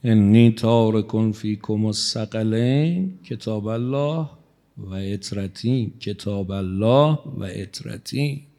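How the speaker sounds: slow, measured Arabic recitation; hadith recitation. Acted. Preacher quoting the Prophet to the congregation, slow solemn recitation. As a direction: intone the hadith slowly, word by word.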